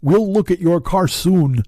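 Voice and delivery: high, slow, supposedly Native American voice; Paul impression. Shown as a demonstration. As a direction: draw it out in a mock Native American accent. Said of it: "like a, a fucking Native American voice".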